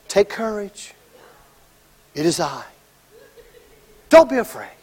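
soft reassurance. Retold or imitated. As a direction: hush them gently. Jesus calming scared disciples.

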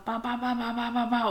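rapid-fire mock nagging noises; imitated ranting. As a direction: rattle off a stream of nagging babble. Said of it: "jag höjer gärna rösten".

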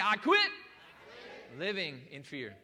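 slow shouted declaration with QUIT punched; emphatic declaration. Shown as a demonstration. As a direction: shout "I quit" for emphasis, then finish slowly. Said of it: "one more time for emphasis".

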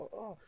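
high but soft mock scream; a small, held-back high cry. Player screaming at the voices, small high mock scream. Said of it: "Så bara skriker man bara".

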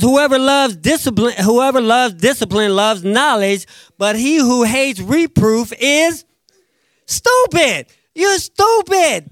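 a comic, high-pitched stupid; punchline on stupid. Acted. Quoting proverb, punchline stupid.

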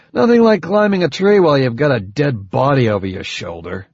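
lightly voiced grumbling soldier; a touch of wry complaint; sarcastic soldier.

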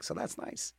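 a private little whispered echo; whispered repeat. Acted. DJ echoing himself to listeners in a whisper. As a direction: whisper it back to yourself.

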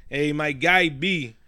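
put-on drawn-out New York accent; slow New York street accent, imitating a buddy; heavy New York accent. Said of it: "heavy with the New York accent".

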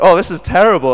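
high, loud lament; mock dismay from the whole family; imitating dismayed family. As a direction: voice exaggerated complaint. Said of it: "all my family are like".

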